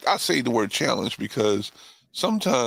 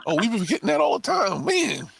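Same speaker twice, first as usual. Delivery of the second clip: excited shout; 11 semitones higher than usual. Real, not acted. Reacting to uncle's mic note.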